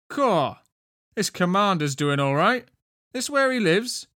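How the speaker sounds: high, loud exclamation; loud comment. A narrator's reading. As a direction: pipe up loudly for all to hear. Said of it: "Wendy commented loudly".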